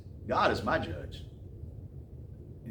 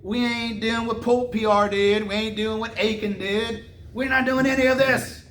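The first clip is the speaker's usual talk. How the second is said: indignant denial; 6 semitones higher than usual. Retold or imitated. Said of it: "and they're like".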